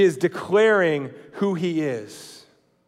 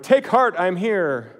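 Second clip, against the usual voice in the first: mock grand entrance; 3 semitones higher, slower than usual. Walking into a room, mock proclamation. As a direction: announce yourself absurdly formally. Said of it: "you're like".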